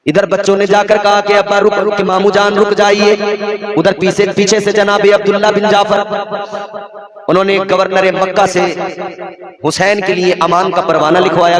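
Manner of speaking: solemn declaimed storytelling; intoned sermon narration. Acted. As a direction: recite the sacred story on a held high note.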